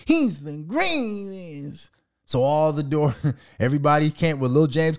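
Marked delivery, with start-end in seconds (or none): 0.1-1.9 slow, drawn-out starstruck gushing; mock fan swooning slowly; mock fawning fan. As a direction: gush like a dick-riding fan, slowly. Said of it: "we like".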